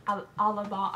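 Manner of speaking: put-on light British accent, listing the words; a nervous put-on British accent; mock British accent. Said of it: "I can't do that one".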